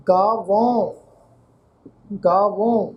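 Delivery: ਗਾਵੋਂ with a nasalised final au; nasal ending. Shown as a demonstration. Teacher models the second word, ਗਾਵੋਂ with nasal last vowel. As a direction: end ਗਾਵੋਂ through the nose. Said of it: "ਇਹ ਇਸੇ ਤਰ੍ਹਾਂ ਇਹ ਸ਼ਬਦ ਆ ਜੀ".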